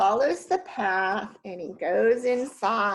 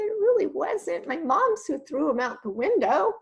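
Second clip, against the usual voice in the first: Jack protesting; 6 semitones higher than usual. Acted. Jack defends himself to kids.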